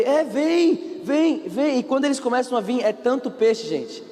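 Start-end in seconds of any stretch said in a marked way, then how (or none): 0.0-1.8 high, urgent beckoning call; acted calling over. Fishermen called over to the boat, acted high beckoning. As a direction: wave them over with a raised pitch.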